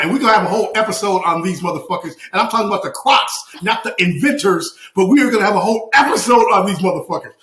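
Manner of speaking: fast, worked-up ranting; heated, rapid-fire tirade; passionate rant. Real, not acted. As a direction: race through it with rising indignation. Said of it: "you know how passionate I am".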